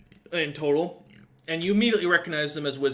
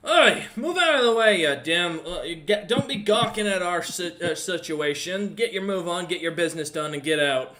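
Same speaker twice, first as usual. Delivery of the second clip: gruff merchant; 3 semitones higher, 4 dB louder than usual. Acted. Merchant shoving past the adventurers, loud and rude. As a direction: bark it at gawking strangers. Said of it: "kinda pushes by you and goes".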